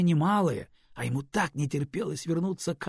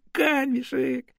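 pleading call; 11 semitones higher, 5 dB louder, much slower than usual. Acted. Ворон умоляюще зовёт.

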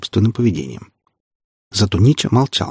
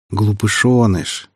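slow, tender pet name; much slower than usual. Acted. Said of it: "невероятно нежно произнёс Нича".

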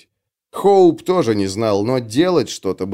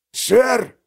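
barked reply; 10 semitones higher than usual. Acted. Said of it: "рявкнул сержант".

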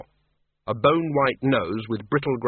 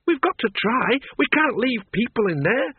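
put-on high, pressing old woman voice; urgent woman; 11 semitones higher than usual. Miss Flitworth argues with Bill, high and urgent. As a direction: press the danger on him.

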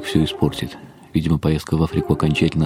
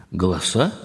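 surprised. Acted. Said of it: "произнёс я удивлённо".

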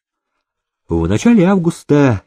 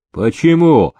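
surprised; 5 semitones higher, 3 dB louder than usual. Acted. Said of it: "удивился Никита".

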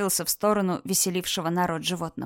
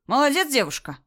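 shout; 5 semitones higher, 3 dB louder than usual. Acted. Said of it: "крикнул парень".

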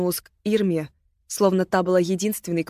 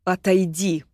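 hissed; slower than usual. Acted. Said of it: "зашипела на неё Агата".

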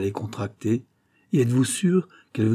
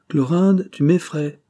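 high, louder cry of concern; acted alarm for a dear cousin; 6 semitones higher, 4 dB louder, slower than usual. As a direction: call the name in alarm, pitched up. Cousin alarmed by her friend's distress.

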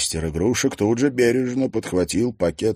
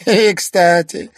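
slow, laughing villain aside; villain chuckle; 11 semitones higher, 8 dB louder, slower than usual. Acted. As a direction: chuckle then drawl it.

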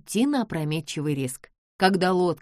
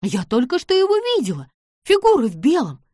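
louder, frightened outburst; panicked cry; 7 semitones higher, 7 dB louder than usual. Acted. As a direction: blurt it out in panic. Bess sees ghost, panics.

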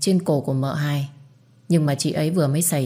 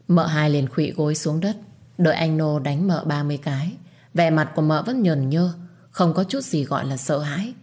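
usual speaking voice

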